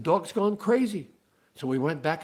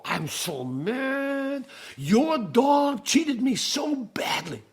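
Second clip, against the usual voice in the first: mild anger; 9 semitones higher, much slower than usual. Acted. Angry buyer complains to farmer.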